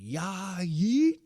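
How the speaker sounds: high, rising mock yell; imitated yell. Host mimics a wrestler's catchphrase, mock yelling. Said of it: "then he yelled real loudly".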